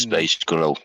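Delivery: put-on "Space Girl" in a light Glaswegian accent, like "Space Grotto"; a hint of Glaswegian on "Space Girl"; a Glaswegian take on a pop band's name. Shown as a demonstration. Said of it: "the way a Glaswegian says fucking Spice Girl".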